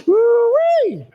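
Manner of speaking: high, loud laughing woo-wee; laughing whoop. Real, not acted. Preacher whooping with laughter at the congregation. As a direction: let the whoop burst out of a laugh.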